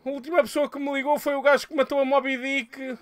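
a hint of a coy woman's voice; voicing Cláudia. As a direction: lightly play the flirty woman. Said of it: "Ela assim".

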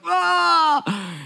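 sudden high, loud shriek of delight; mock owner squealing at the price; excited shriek. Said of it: "And the person's like".

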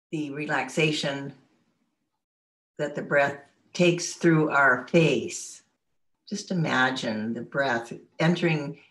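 unhurried meditation guide, long pauses between phrases; guided meditation. Real, not acted. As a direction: lead listeners gently through breathing and relaxation. Leads a guided relaxation.

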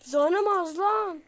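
slow, loud complaining whine; drawn-out whine. Real, not acted. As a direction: stretch it out in frustration. Low health, complaining to game.

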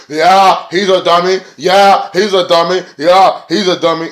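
high, loud mocking doofus voice; mock him as a dimwit; sneering imitation of a rival wrestler's catchphrase; dumb wrestler impression. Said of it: "He sounds fucking stupid as hell".

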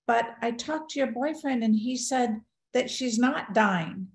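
lightly imitated chipper mom; a touch of breezy cheer; chipper mother. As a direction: say it chipper, as if nothing is wrong. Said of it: "my mother is acting all chipper".

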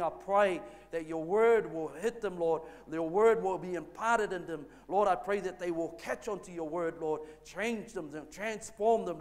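earnest pastor praying aloud, each plea closed with Lord; fervent prayer. Acted. Pastor praying over listeners before the sermon, fervent prayer. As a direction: pray it over the congregation, rising on the pleas.

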